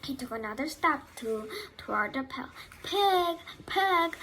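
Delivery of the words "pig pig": kindly high-pitched call; higher, friendly animal call. A narrator's reading. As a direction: coax the pig over kindly. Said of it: "in a kind voice".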